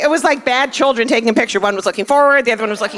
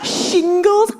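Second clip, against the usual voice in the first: phone sex operator. Retold or imitated. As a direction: play a tired middle-aged phone sex line, mildly. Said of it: "she's a phone sex operator".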